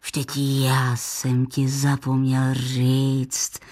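put-on deep, slow old grandfather; low, unhurried grandpa voice; old grandfather rambling slowly. A narrator's reading. Grandpa speaks.

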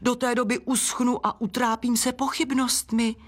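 high-pitched flower's wail; squealed lament. A narrator's reading. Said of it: "vypískla Gladiola". (vypísknutý nářek)

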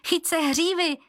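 high urgent cry; Libuše shouting. A narrator's reading. Libuše cries out to Martin on the horse, urgent. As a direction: call out the warning high. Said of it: "vykřikla Libuše".

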